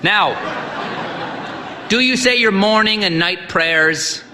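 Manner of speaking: put-on high, booming old priest; hearty old priest. A narrator's reading. Old priest sizing up the sick boy, hearty. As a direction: boom at the boy like a brisk priest.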